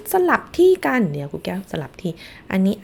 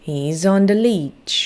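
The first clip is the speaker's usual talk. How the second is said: slow model sentence; much slower than usual. Shown as a demonstration. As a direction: repeat He's on the leech slowly for kids to echo. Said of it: "ลองพูดตามสิคะ".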